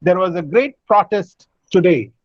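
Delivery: "protest" stressed on PRO- within the sentence; noun stress. Shown as a demonstration. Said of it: "put a stress on the first syllable".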